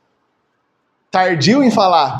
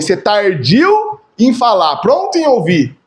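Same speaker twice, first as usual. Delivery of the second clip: scripture quote; slower than usual. Shown as a demonstration. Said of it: "Diz assim pro homem".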